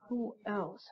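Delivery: soft, creepy whispered question; eerie whisper. Acted. Reading the note's twist to the viewers, in a creepy whisper. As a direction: let the last words hang in a chilling whisper.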